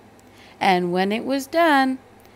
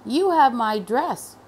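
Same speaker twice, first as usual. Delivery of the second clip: high, loud protest; refusing to back down; indignant teacher; 6 semitones higher, 9 dB louder than usual. A narrator's reading. Teacher fires back at the principal, indignant. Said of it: "The teacher said".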